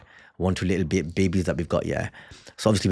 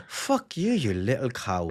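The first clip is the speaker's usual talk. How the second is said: mock fury; 4 dB quieter, much slower than usual. Wife voiced cursing daughter.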